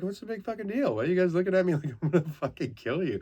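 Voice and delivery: high, fast, indignant outburst; confused angry rant. Retold or imitated. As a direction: demand it, bewildered and cross. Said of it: "and I'm like".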